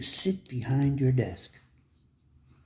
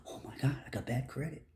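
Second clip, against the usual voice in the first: mock panic; 9 dB quieter than usual. Mocking panic over bad credit.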